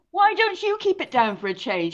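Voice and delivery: high, loud mock-nagging wife; wife mid-quarrel over the Zoom call, imitated high and loud. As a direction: imitate a fed-up wife snapping at her husband. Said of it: "She, she was saying".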